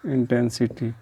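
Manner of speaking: slow, dictated लुमिनस; slow dictation. Shown as a demonstration. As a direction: draw out लुमिनस very slowly. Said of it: "लुमिनस intense".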